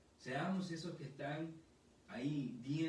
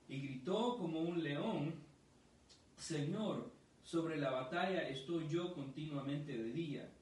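raised, solemn prophetic reading; proclaiming scripture. Acted. Pastor proclaiming the prophecy to his congregation, raised and solemn. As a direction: read it out like a prophet's cry.

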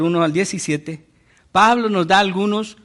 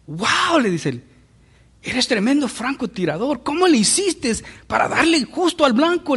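higher, eager amazed questioning; amazed exclamation; 5 semitones higher than usual. Acted. Young man asking his friend about the sharpshooter, amazed and higher. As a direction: gasp it out like you can't believe the shot.

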